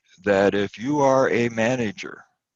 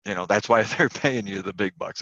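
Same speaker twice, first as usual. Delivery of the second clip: dry sarcastic jab with a laugh. Acted. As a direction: say it sarcastically, tongue in cheek. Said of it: "I'm being sarcastic".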